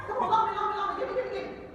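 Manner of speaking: mock scramble for cash, pitched high; hammed-up pleading, high voice; frantic begging. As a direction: beg eagerly in quick repeats. Acted scramble to borrow money.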